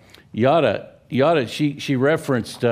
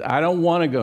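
whiny son; 6 semitones higher, faster than usual. Retold or imitated. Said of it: "And he said".

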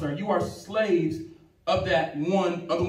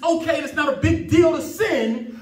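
raised, driving sermon delivery; impassioned pulpit voice; fervent preaching; 6 semitones higher, 3 dB louder than usual. Real, not acted. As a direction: preach it with conviction, pitched up. Preaching with full fervour.

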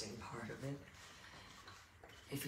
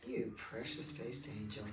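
cooing; 2 semitones lower, 4 dB quieter, slower than usual. Real, not acted. Cooing at the puppy.

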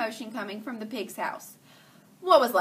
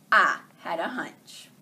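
secretive hushed whisper; 4 semitones lower, 5 dB louder, slower than usual. Acted. Detective tells the listeners a secret hunch in a whisper.

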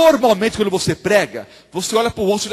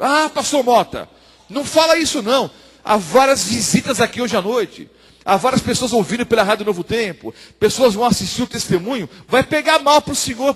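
higher-pitched imagined objection; worried protest; 4 semitones higher than usual. Acted. Listeners object to the pastor's admission, worried protest. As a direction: protest as a concerned church member.

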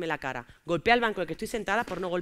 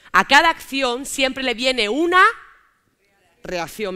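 1 ominous build-up; 3 semitones higher, 8 dB louder, much slower than usual. Acted. Proverb before the slap.

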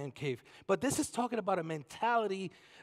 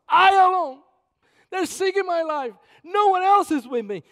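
self-pitying cry; 10 semitones higher, 11 dB louder than usual. Retold or imitated. Mimicking Elijah's self-pity.

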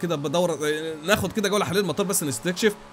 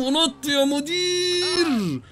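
hype yell; 9 semitones higher, much slower than usual. Real, not acted. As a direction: cheer yourself off the ramp. Hyping the jump again.

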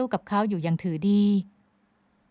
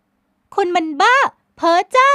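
high, loud, slow insult; scornful young woman; 11 semitones higher, 10 dB louder, much slower than usual. A narrator's reading. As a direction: spit out the scorn. Heroine insults him.

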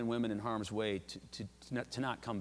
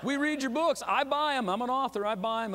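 imitated excited gush; 11 semitones higher, 5 dB louder than usual. Retelling the president's excited gushing.

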